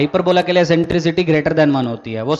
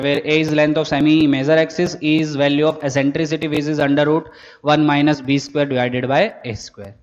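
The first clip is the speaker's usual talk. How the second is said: slow, deliberate classroom dictation; teacher reading notes aloud at writing pace; much slower than usual. Shown as a demonstration. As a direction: spell it out word by word so students can write it down. Dictates definitions again.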